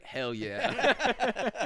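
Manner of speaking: excited cheer. Retold or imitated. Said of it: "I'd have been like".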